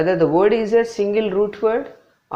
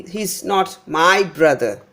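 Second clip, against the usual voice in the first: "my" given extra weight, brother stressed too; he is not MY BROTHER, falling at the end. Shown as a demonstration. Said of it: "So here my is given more importance".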